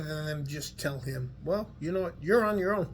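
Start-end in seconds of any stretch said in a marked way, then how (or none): 1.4-2.9 mock brush-off. Family brushing off a young man, mock dismissive send-off. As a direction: toss it off like shutting the door on him. Mocking what family tells guys.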